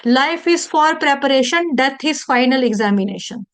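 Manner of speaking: slow, weighty maxim; slow quotation. Shown as a demonstration. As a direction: spell out each word slowly. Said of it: "तभी मैं बोल रही हूँ".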